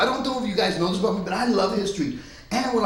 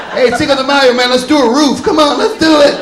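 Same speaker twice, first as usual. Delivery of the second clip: rowdy partygoer; 5 semitones higher, 11 dB louder than usual. Pretend. Acting partygoers on Cinco de Mayo.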